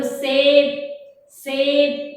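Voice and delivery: "सेब" as a separate model word, dental स; dental s demo. Shown as a demonstration. Teacher having children repeat "सेब", careful dental s demo. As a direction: sound out "सेब" with the tongue at the tooth roots. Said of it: "आपकी जीभ आपकी दांत की जो".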